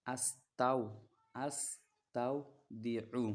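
আস্তাউদিউ said slowly with a throaty ayn after আস্তা; teacher showing the ayn in আস্তাউদিউ; Arabic ayn sound. Shown as a demonstration. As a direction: pronounce the ain in আস্তাউদিউ from the throat, drawn out. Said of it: "এখানে আইন আছে".

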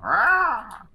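zombie noise. Pretend. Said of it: "Siggy making the zombie noises".

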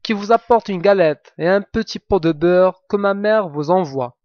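the wolf badly playing sweet little granddaughter; wolf faking girl's voice. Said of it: "en contrefaisant sa voix".

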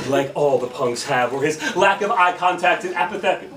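emphatic spoken-word delivery with punched openings; slam poetry. Acted. Poet telling a crowd about infixing, slam poetry. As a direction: declaim it to a crowd, stretching key phrases. Performs a slam poem on stage.

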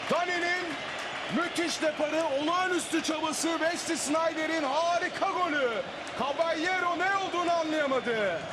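high, thrilled commentator; excited commentary. Real, not acted. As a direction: keep the goal buzz going. Replaying goal build-up excitedly.

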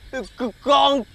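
loud, slow outraged burst; slow indignant shout. Acted. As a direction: shout it at her slowly in disbelief. Shouting at the seller.

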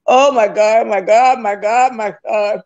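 tearful cries fading away; crying out. Real, not acted. Woman crying out to God in tears, fading. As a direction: call on God through tears, dying down.

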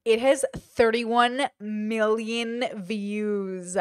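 slow, drawn-out disbelief; slowly taking in a huge figure; stunned. Real, not acted. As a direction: stretch out every word in amazement. Stunned reading of view count.

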